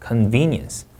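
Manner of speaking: CONVENIENCE with VEN stressed; CONVENIENCE, weight on VEN; second-syllable stress. Shown as a demonstration. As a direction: lean on the middle of CONVENIENCE. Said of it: "이음절 강세입니다".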